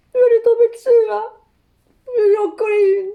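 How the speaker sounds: high, loud comic indignation; heated outburst. Acted. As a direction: burst out with it, worked up. Mime la gifle vengeresse promise. (emportée, voix haute et forte)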